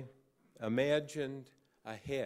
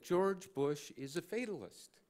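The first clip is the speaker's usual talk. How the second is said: retold angry accusation, pitched higher; angry insistence; 6 semitones higher than usual. She insists to the reporter about Bush, retold anger. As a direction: voice her mounting anger, lightly acted. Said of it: "kind of that lamp-throwing anger".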